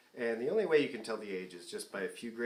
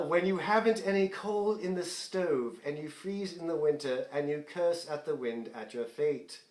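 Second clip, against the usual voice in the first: spoken recitation of lyrics in a light British accent; lightly put-on British accent; 3 semitones higher than usual. Shown as a demonstration. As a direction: read the lyric aloud with a mild British lilt. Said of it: "Why did you do that in a British accent?".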